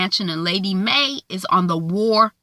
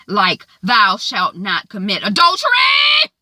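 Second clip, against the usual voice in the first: accusing shout; 4 dB louder, slower than usual. Acted. Lady May accusing Lionel.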